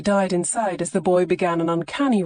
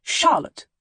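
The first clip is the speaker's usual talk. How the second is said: a sharp, higher mother's call of the name; a hint of a stern mother; scolding; 9 semitones higher than usual. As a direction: scold her daughter by name. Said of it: "she scolded".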